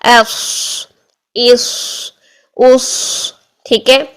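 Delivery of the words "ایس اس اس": ایس، اس، اس each ending in a long heavy hiss; full-mouthed saad. Shown as a demonstration. Teacher drilling saad without a vowel, اس thick and held. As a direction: fill the mouth and hold the s of اس. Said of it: "منہ بھر کے".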